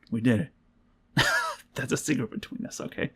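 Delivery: hushed, conspiratorial whisper to the team; whispered secret. Real, not acted. Confiding secret to her team.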